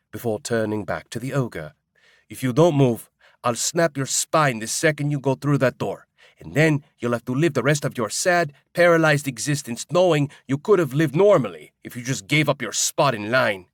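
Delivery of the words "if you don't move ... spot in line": louder, menacing threat pressed hard; ferocious threat. Acted. Juan threatens the ogre blocking the door, fierce and menacing. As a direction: threaten him, every word a blow. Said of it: "The ferocity with which Juan makes his threat".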